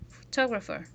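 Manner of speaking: "Photographer" stressed on the second syllable; "Photographer", second syllable strong, the rest lighter; one accented syllable. Shown as a demonstration. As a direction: punch "tog" in "Photographer". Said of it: "we accentuate one syllable".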